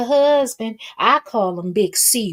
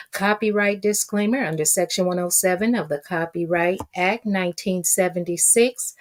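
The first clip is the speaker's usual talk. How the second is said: reading a disclaimer. Real, not acted. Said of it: "do my due diligence and read this".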